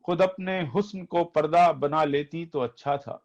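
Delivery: poetry recitation. Acted. Reciting Majaz nazm to audience.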